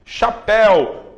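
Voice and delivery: chapéu drawn out slow, é strong and u weak; slow chapéu, é leading; diphthong éu demo. Shown as a demonstration. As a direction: lean on é, fade the u. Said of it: "O el tá forte".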